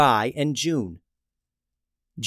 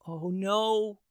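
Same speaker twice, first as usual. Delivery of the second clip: whispered; 6 semitones higher, 7 dB quieter than usual. Acted. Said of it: "whispered June".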